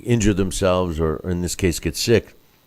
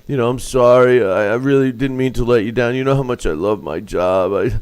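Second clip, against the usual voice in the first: sick voice; 3 semitones higher, faster than usual. Retold or imitated. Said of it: "everybody can do the sick voice".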